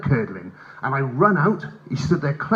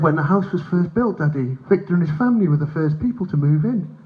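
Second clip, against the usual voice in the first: put-on little boy; 2 semitones higher than usual. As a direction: explain it like a child to Daddy. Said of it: "He said".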